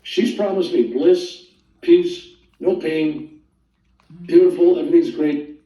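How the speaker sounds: high-pitched, indignant wait wait; mock protest. Protesting the guru's refusal.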